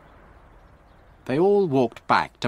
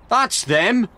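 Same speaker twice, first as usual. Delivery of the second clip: higher, louder cry of discovery; excited shout; 12 semitones higher, 5 dB louder than usual. A narrator's reading. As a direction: shout it out on spotting the evidence. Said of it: "shouted Frank".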